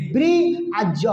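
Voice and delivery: ब्री आ ज, said part by part; ब्री आ ज as a teacher's sound-by-sound breakdown; broken into sounds. Shown as a demonstration. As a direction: sound out ब्री, then ज, joined by आ. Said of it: "ब्रिज पढ़ना".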